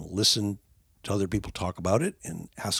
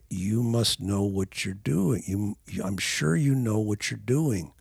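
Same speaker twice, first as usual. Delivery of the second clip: 1 calm reassuring. Shown as a demonstration. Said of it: "nod and say".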